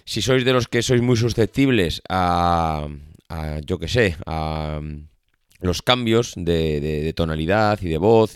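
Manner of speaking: blocked nose, stuffy nasal voice. Real, not acted. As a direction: speak with a cold's blocked nose. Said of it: "esta voz nasal tan lamentable que tengo".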